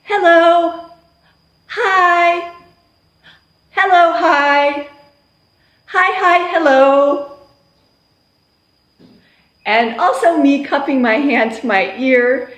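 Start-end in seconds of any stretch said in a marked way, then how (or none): 0.0-7.4 higher, louder rapid hello hi calls; playful call-and-response drill; teacher call-and-response. Shown as a demonstration. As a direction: fire the greetings at the class.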